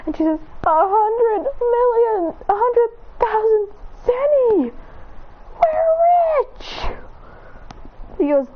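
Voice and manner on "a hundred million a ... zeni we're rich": high, slow, drawn-out delight; thrilled mother. Acted. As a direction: savour every word of the fortune. Chi-Chi finds a fortune.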